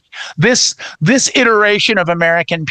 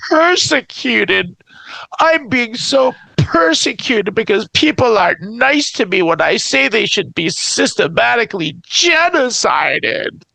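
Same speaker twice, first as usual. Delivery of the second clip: mock whine; 2 semitones higher than usual. Parodying bigot claiming persecution.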